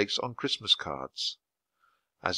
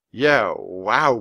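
awed, breathy wonder; breathed; 5 dB louder than usual. A narrator's reading. Jack stunned by the unicorn ride, breathed awe. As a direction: let the words out on a breath. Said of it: "breathed Jack".

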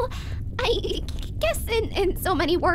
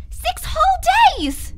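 louder, slower, higher insistence; emphatic plea; 8 semitones higher, 7 dB louder, slower than usual. Acted. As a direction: stretch each word, begging him to see. Pleading with brother.

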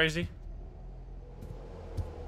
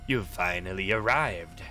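low, slow sinister creature voice; 8 semitones lower, slower than usual. Acted. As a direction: menace it out slowly and low. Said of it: "It starts to talk in a sinister voice".

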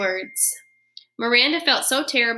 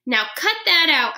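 higher, squeaky little scold; squeaky hamster scolding; 6 semitones higher, 3 dB louder than usual. Acted. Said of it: "I squeaked at him".

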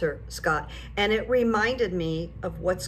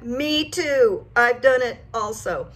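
retold yell back; 4 semitones higher, 4 dB louder than usual. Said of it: "And he yelled back".

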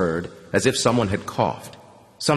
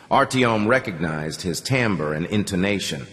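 usual speaking voice

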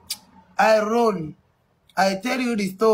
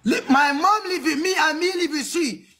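frustrated near-sobbing shout, pitched up; exasperated yell; 5 semitones higher than usual. Acted. African accent. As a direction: yell it like you're at the end of your rope.

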